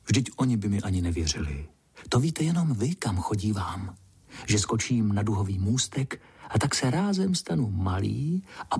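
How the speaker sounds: gentle bedtime story narration. A narrator's reading. Vypravěč uvádí pohádku. (jemné vyprávění pohádky dětem)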